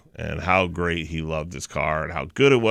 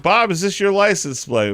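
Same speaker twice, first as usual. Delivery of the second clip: raised pitch, teasing call to Bob; higher, playful mock presenter; mock-innocent question; 10 semitones higher than usual. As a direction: taunt the teacher with a fake innocent question. Taunting teacher in retold video.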